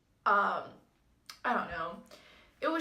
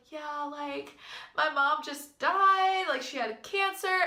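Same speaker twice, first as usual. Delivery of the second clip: retold tearful confession; 6 semitones higher, 3 dB louder, slower than usual. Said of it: "and then she just starts bawling".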